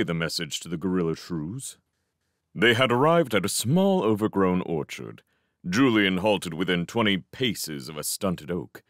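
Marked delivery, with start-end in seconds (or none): none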